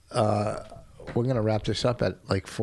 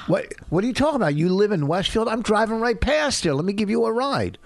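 higher, fast, offhand street guy; casual compromise delivery; 6 semitones higher than usual. Shown as a demonstration. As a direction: toss the lines off casually. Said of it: "A little compromise, like".

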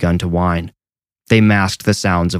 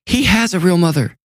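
much higher, anguished cry; a nurse screaming at the headmistress; screamed; 11 semitones higher than usual. Acted. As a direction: throw it out as a desperate scream. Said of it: "Tess screamed".

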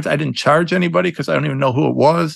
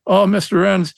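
imitating a pleading mother, a bit higher; mock tearful plea, pitched up a little; tearful mom; 4 semitones higher than usual. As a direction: lightly voice a desperate, grateful mom in tears. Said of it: "She's in tears".

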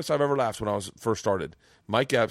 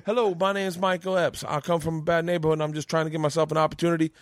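put-on polite kid salesman; 5 semitones higher, faster than usual. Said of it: "And he's like".

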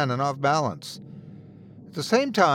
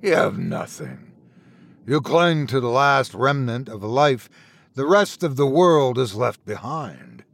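disgusted rumble; 2 semitones lower than usual. Acted. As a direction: rumble the judgement with contempt. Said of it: "The voice rumbled in disgust".

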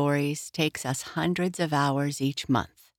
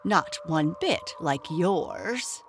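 slow, prim little retort; lightly voiced grub. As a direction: point out your clean face.

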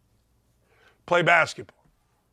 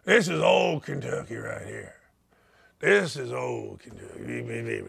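put-on Kentucky accent; 8 semitones lower, 5 dB quieter than usual. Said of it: "do the whole show in a Kentucky accent".

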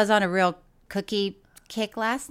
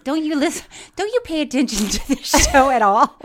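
louder, laughing through it; laughing tease; 4 semitones higher, 5 dB louder than usual. Real, not acted. The speaker teasing Tig for not listening, laughing. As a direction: scold her through laughter.

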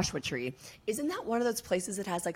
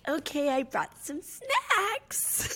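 mock sweet friend; 8 semitones higher, much slower than usual. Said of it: "and you'd be like".

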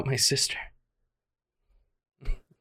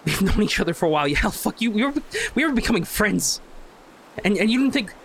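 rising, faster, bitter reproach; heated confrontation; 5 semitones higher than usual. Acted. Jay confronting Lizzie over years of silence, bitter and rising. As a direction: push back hard at her.

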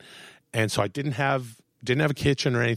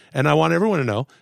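ordinary talk, nothing marked

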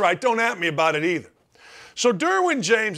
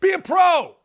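mock Rodgers shout; 11 semitones higher than usual. Rodgers yelling at receivers, higher shouted order. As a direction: bark it like a fed-up quarterback. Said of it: "So Aaron Rodgers says".

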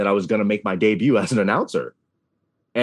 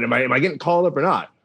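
freaking out; 3 semitones higher, faster than usual. Retold or imitated. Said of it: "I'm freaking out".

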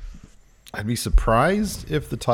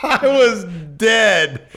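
high, loud laughter through the words; laughing hard; 5 dB louder, much slower than usual. Real, not acted. Co-host recalls Otis's one-word reply, laughing hard. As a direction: crack up, barely getting words out. Cracking up at the memory.

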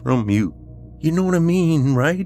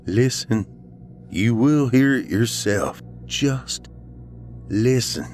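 higher, deliberate with pauses; insistent urging; 7 semitones higher, slower than usual. Acted. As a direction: press him, word by word. Ryan urges Dave to listen.

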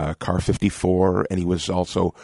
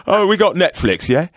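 laughing; 10 semitones higher, 5 dB louder than usual. Retold or imitated. Waiter's retold answer.

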